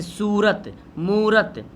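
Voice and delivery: long drawn "oo" in सूरत and मूरत; drawn-out long vowel. Shown as a demonstration. Teacher showing waav maroof, long stretched ऊ in सूरत, मूरत. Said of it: "वाव को खींच कर पढ़ा जाता है".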